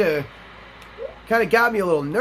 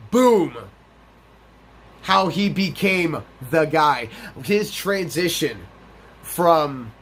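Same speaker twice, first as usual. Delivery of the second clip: slow, portentous episode preview; dramatic teaser announcer; slower than usual. Pretend. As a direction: tease next episode with big pauses between phrases.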